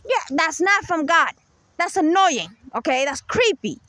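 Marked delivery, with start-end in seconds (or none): 0.1-1.3 mock their way of talking, pitched way up; mimicking their speech. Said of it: "They copy the way that they".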